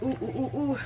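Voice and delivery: soft little oohs against crying; soft "ooh"s, nearly crying; holding back tears. Real, not acted. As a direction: fight off real tears with quick oohs. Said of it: "I wanna cry so bad".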